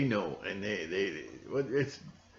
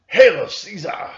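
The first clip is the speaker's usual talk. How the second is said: mock salute; 9 semitones higher, 13 dB louder, slower than usual.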